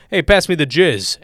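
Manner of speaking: mock jokey dinner request; joking dad. Imagining dad saying it to get laughs, playfully. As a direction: toss it out as a gag. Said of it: "and then everyone laughs and he went".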